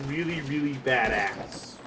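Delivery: slow drawl. Real, not acted. Drawn out for effect.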